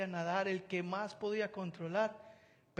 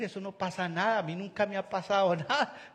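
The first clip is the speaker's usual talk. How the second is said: carefree mock reassurance; 7 dB louder than usual. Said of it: "Viene el otro que no es catastrófico".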